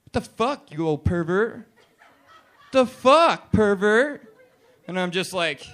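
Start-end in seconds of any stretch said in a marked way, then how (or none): 0.0-4.3 higher-pitched mock outrage, building louder; offended woman. Girl catches him looking at her, high indignant challenge. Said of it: "she's like".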